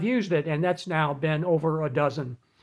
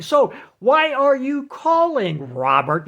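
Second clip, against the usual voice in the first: mock computer voice; 6 semitones higher, 3 dB louder, slower than usual. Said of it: "The computer voice then says".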